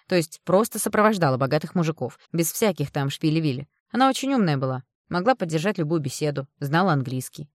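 loud, blunt, insistent woman; a tough friend laying it out straight; brash friend. Acted. Friend advising the mother, loud blunt voice.

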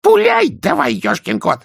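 high, loud panicked yell. A narrator's reading. Nobby yells at the sergeant to fire. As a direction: scream at him to shoot. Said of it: "завопил Шнобби".

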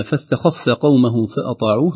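فاستخف with a light fa. Shown as a demonstration. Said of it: "ترقق الفاء". (ترقيق الفاء في فاستخف)

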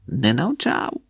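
plain reading voice

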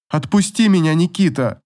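a touch of convulsive sobbing; sobbing plea. A narrator's reading. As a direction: beg through sobs. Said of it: "судорожно всхлипывая".

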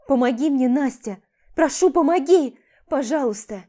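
a mother begging her friend for help; desperate pleading. Acted. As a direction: plead with all she has.

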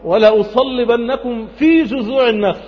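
high, slow threat with في drawn out; stress on في. Shown as a demonstration. Pharaoh threatens crucifixion on palm trunks, stress on في. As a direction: lift and stretch the word في. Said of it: "المفروض يقول على جذوع النخل".

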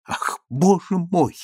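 a tired, exasperated outburst; exclaiming. Acted. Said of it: "вскрикнула султанша".

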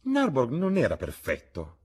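exclaiming. A narrator's reading. Old lady speaking of her late husband, exclaiming. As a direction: exclaim it in a high voice. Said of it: "esclamò la vecchia signora".

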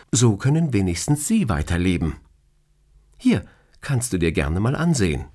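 teasing boss. Acted. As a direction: tease him like an amused boss. Boss shows donor card.

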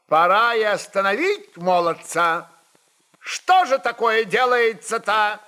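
the tsar fumes at Stenka's boldness; angry exclamation. Acted. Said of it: "гневно воскликнул он". (гневное восклицание, с повышением к концу)

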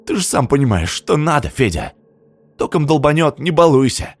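pleading. A narrator's reading. Zina pressures Sergei.

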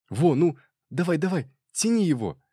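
an off-duty cop cheering a football match on TV; excited cheering. A narrator's reading. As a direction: egg the player on like a fan at the match.

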